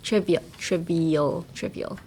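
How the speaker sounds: trivial spelt out slowly, syllable by syllable; slow careful trivial. Shown as a demonstration. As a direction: model the word trivial slowly. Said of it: "I say this every time".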